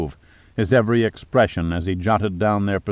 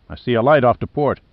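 alert; 3 semitones higher, 4 dB louder, faster than usual. Acted. Sailor spots light, alert.

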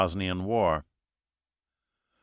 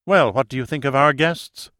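scornful question; derisive; 4 semitones higher, 4 dB louder than usual. Acted. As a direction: sneer at the guests. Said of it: "she said with derision".

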